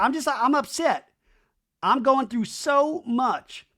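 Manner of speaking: high, loud whine, dragging at the end; hammed-up self-pitying complaint; mock upset. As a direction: wail it like an imitated meltdown. Imitating Brittany upset in quarrel.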